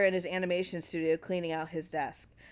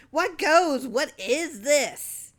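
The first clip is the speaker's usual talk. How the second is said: high, loud, slow outraged demand; furious demand; 8 semitones higher, 8 dB louder, much slower than usual. Acted. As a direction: spit out each word in fury. Clarence furious at screen.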